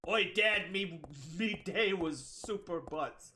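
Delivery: slow lightly done pirate. Pretend. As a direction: drawl it like a cartoon pirate. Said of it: "Krusty Krab pirate voice".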